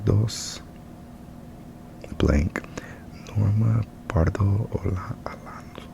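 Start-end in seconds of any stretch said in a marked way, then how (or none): 3.4-5.9 whispering. Real, not acted. Whispered homework.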